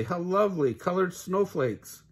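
charmed by the swirling hearts; delighted wonder. Acted. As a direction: savour the sight in awe. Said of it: "cried Tilly".

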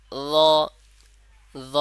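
ল said slowly and clearly, held one alif long; Arabic letter demo. Shown as a demonstration. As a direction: isolate ল, stretching it one alif. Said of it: "যেমন আমি পড়ে শোনাচ্ছি". (ল হরফটি এক আলিফ টেনে স্পষ্ট উচ্চারণ)

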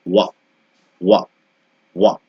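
ওয়া as a short rounded wa; WH sound demo. Shown as a demonstration. Teacher modelling the wh sound, short and clean. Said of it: "ডাব্লিউএইচ এর শব্দটা হচ্ছে".

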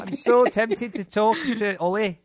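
put-on Scottish accent, drawn out; slow mock-Scottish voice. The speaker translating for a muted friend, mock Scottish accent. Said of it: "do a Scottish accent".

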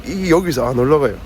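speech slurred by numbness; numb mouth from anesthesia. Real, not acted. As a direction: talk with a numb face. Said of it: "지금 마취가 안 풀려갖고 ... 말을 잘 못하겠어요".

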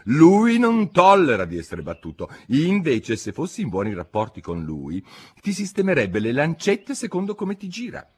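high-pitched, excitable Hatter voice; lively, high character voice; animated Mad Hatter. A narrator's reading.

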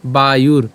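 "বায়ুর" ending on a bare r; r with no vowel. Shown as a demonstration. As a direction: close "বায়ুর" on r with no trailing vowel. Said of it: "হসন্ত আকারে আমরা এটাকে উচ্চারণ করব". ("বায়ুর", শেষে হসন্ত র)

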